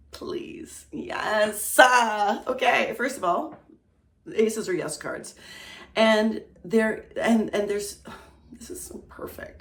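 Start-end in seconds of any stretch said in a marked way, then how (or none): 0.1-1.8 hopeful whisper. Real, not acted. Hoping card answers yes. 8.5-9.6 moved whisper. Real, not acted. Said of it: "I'm almost gonna cry".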